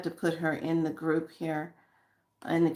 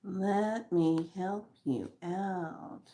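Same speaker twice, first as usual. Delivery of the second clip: slow, softer; slow soft healing; 6 dB quieter, much slower than usual. Shown as a demonstration. To viewers with issues, slow soft healing voice. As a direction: send it gently like healing energy. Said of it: "those of you that are having issues".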